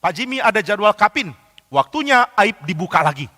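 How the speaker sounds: playful imitation of a colleague's ribbing; joking colleague. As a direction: tease like a joking workmate. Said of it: "selalu bercanda".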